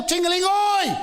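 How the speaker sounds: bike bell barking at a driver; swearing bell shout. Pretend. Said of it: "That'd be a better bell".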